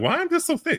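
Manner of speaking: puzzled, disgusted tone. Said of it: "I'm like".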